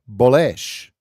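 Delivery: "bullish" loud, weight on the second syllable; misplaced emphasis. Real, not acted. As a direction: say bullish as buh-LESH, hitting the end. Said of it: "I have the wrong emphasis".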